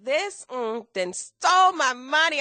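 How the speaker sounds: hammed-up indignant wail; mock upset. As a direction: replay being robbed, half laughing. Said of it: "I was so upset".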